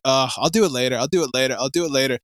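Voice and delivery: low, offhand procrastinator's mumble; low and listless, repeated like a routine excuse; putting it off. Retold or imitated. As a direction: lazily brush off a chore, voice dropped low. Imagines putting off the editing.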